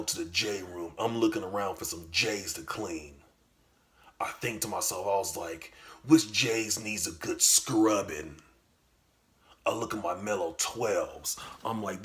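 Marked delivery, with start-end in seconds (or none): 6.1-8.4 louder, slow musing; mock pondering. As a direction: savor the question. Musing over sneakers.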